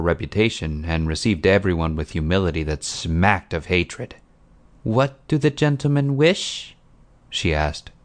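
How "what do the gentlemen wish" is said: higher-pitched, put-on servile voice; obsequious peasant woman, pitched up; falsely humble woman. A narrator's reading. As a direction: greet them with resentful humility. Woman greets visitors with hateful humility.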